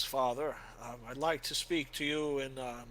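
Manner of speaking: a solemn knight asking forgiveness in advance; earnest warrior. Acted. Helwyn asking Father for penance, earnest and formal. GM voices Helwyn addressing priest.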